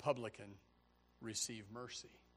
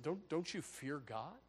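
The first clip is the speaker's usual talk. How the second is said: from a hushed plea to a loud warning; the other thief rebuking his companion, hushed then shouting; pleading thief building up; 9 semitones higher, 12 dB louder than usual. Acted. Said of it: "And the other thief said".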